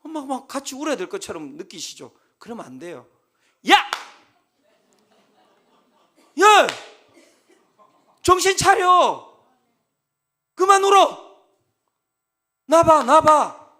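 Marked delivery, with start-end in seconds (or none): 3.7-13.7 loud commanding yells, slow and forceful; shouting at him. Retold or imitated. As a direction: shout him out of his crying like a stern pastor. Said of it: "계속 소리 질러야 돼요".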